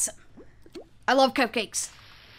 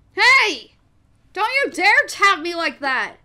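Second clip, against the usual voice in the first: indignant scolding; 6 semitones higher, 5 dB louder than usual. Real, not acted. Playfully scolds for tapping her.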